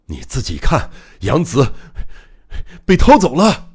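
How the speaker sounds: angry outburst building to a high shout; furious roar. Acted. Enraged doctor pushing the guard off, roaring at him. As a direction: build to a loud, high-pitched bellow. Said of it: "放声大吼".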